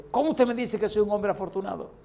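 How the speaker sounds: imitación de un enfermo indignado, voz más alta; indignado, rojo de ira. Retold or imitated. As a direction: reclama airado, subiendo el tono. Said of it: "se puso rojo de la ira y me dice". (reclamo furioso, imitado)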